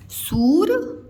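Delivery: सूर breathed out in a whisper. Shown as a demonstration. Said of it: "whispered syllable". (सूर फुसफुसाकर)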